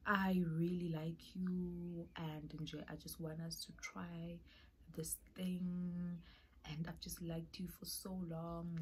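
imitating a hushed crush confessing; soft confession. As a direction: quietly confess your feelings, a touch imitated. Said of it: "she was stressing how much she liked me".

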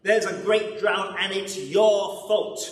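hammed-up royal blame; angry king. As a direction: blame him furiously as the king. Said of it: "roared the king".

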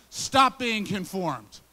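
loud and slow, each word weighted; emphatic command. Shown as a demonstration. Preacher rereading the verse to Christians as a loud, slow command. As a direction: lean hard on every word. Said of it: "but it also can be read".

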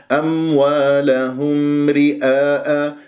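أموالهم رئاء with the meem heard clearly, slow. Shown as a demonstration. Teacher reciting slowly so students hear the meem. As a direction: close the lips firmly on the meem in أموالهم. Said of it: "لاحظتم كيف سمعناها الميم".

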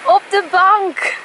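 high, excited call to the dog. Real, not acted.

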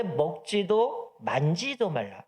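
very slow, drawn-out 먹지도 만지도 말라, every word laid out; altered command slow. Shown as a demonstration. Preacher shows how Eve added to the command, drawn out slowly. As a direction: drag out 먹지도 만지도 to show the added words. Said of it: "이렇게 얘기를 하고요".

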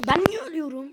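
half under breath, wondering why he died; quiet mutter. Real, not acted. Dying again, muttered to self. (kendi kendine sessizce mırıldanma)

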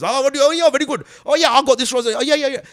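high, loud, sweet-talking charmer; charming hustler dad. Retold or imitated. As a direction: schmooze like a smooth hustler. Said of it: "Hustling, bruv".

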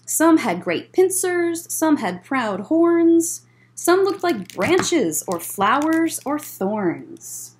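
lively storybook read-aloud; bouncy rhyming picture-book narration; reading to children. A narrator's reading. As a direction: read it like story time for kids.

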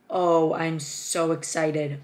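slow, drawn-out gushing; thrilled, lingering on each word; so excited. Real, not acted. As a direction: savour the excitement, stretching the words.

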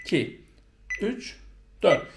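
evenly spaced beats with clear gaps; steady metronome count. Shown as a demonstration. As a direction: count evenly, one number per beat. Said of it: "sabit metronomla belirlediğiniz ölçüyü".

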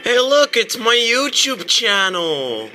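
delighted surprise at spotting something; reaction video. Real, not acted. Streamer spots own channel in game.

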